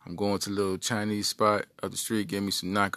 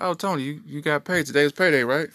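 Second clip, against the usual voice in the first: higher, sugary mom; a mother buttering him up; mom's sweet voice; 5 semitones higher than usual. Retold or imitated. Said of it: "She's like".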